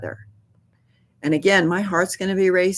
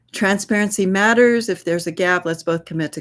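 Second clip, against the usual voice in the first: firm redirect; 4 semitones higher than usual. Shown as a demonstration. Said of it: "redirect to accountability".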